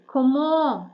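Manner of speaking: Comment said with a nasal end and no T; comment, silent T. Shown as a demonstration. A teacher repeating Comment to show the silent T. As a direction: leave the final T of Comment silent. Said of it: "Т ви не читаєте".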